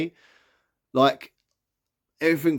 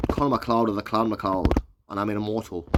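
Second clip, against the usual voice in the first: badly faked Highlander accent, slightly lower; Conor McLeod; 4 semitones lower than usual. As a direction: lightly attempt a Highlander's accent, and miss. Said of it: "that was a bad accent".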